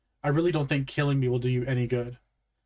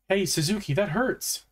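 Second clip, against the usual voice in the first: restrained shout with pitch raised; pained shout; 7 semitones higher than usual. A narrator's reading. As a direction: cry out in protest at being hurt. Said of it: "I shouted".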